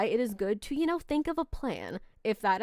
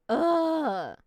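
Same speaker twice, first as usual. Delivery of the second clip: drawn-out higher "ugh"; frustrated groan; 5 semitones higher than usual. Real, not acted. Streamer groans at lagging stream, frustrated. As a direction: groan at the technical trouble.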